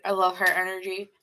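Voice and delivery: talking around a pen in the mouth; words muffled by a pen held in the teeth. Real, not acted. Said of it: "As I'm saying that with a pen in my mouth".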